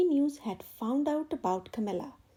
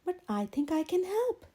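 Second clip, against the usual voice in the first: bright; 5 semitones higher than usual. Acted. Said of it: "she said brightly".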